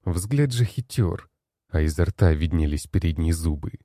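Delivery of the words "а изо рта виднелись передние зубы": plain reading voice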